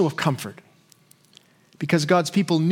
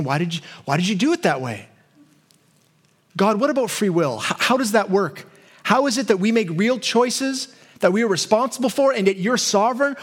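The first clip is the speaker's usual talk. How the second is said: big picture questions; 2 semitones higher than usual. Retold or imitated. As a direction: puzzle aloud over the big questions. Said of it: "but also big picture questions".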